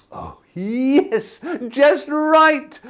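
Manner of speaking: whispered then bursting high and loud with joy; cried with delight. Acted. Goldilocks finding the perfect porridge, delighted. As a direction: breathe it, then squeal with delight. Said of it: "she cried with delight".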